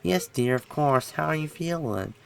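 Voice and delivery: lightly voiced old lady; a hint of an elderly mother. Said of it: "recreate a, an elderly voice".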